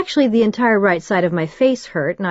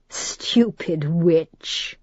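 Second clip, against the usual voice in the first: mocking demon; much slower than usual. A narrator's reading. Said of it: "mocking laugh grew in depth".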